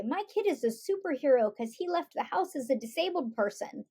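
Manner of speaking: lightly gushing praise of a superhero; mildly hammed-up inspirational tone; mock admiration. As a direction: overstate it a touch, as if awed. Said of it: "You don't need to say".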